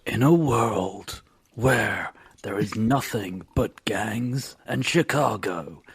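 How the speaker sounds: slow dramatic trailer narrator; slow epic trailer announcer; movie trailer voice. Pretend.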